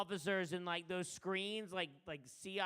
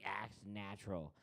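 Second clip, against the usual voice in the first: low, soft conspiratorial hint; hushed instruction; 9 semitones lower, 8 dB quieter than usual. Retold or imitated. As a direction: tell him quietly so nobody hears. Coke instructing quietly.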